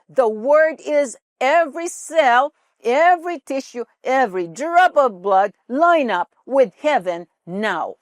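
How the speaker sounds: loud, slow, defiant declarations; shouted confession. Retold or imitated. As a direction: proclaim each line like a battle cry. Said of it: "sisisigaw siya".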